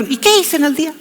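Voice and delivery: high, surprised sigh at the lost day; a lightly acted "where did it go"; mock dismay. Someone noticing the day vanished, mock surprise. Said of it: "uno se pregunta".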